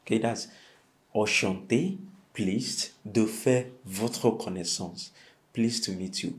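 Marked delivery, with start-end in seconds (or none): 1.1-5.1 "enchanté de faire votre connaissance" drawn out slowly; slow model phrase. Shown as a demonstration. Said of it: "Can you repeat that?".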